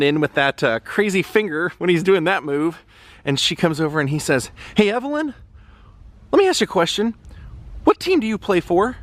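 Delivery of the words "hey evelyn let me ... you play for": coach voice. Retold or imitated. Voices Tom Hanks coach quote.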